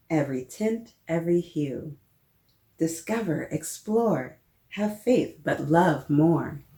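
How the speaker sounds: put-on gentle, lilting read-aloud to children; picture book read-aloud. Librarian reading a picture book to children, gentle and lilting.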